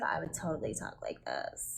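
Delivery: low, hushed, breathy flirty bedroom whisper. The speaker shows listeners how they would talk when flirting; flirty bedroom voice. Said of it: "if I was to be flirting with you".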